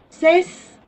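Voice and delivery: césped in two beats, CES high and loud, long pause, ped; syllable by syllable. Shown as a demonstration. Teacher splits example word into syllables. (césped separado en sílabas)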